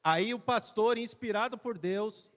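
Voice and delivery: loud, slow preaching rise; preacher's build-up. Shown as a demonstration. Pastor announcing God's inspiration, loud and slow. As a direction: proclaim it to the church. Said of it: "Não, por favor, fala de novo agora assim".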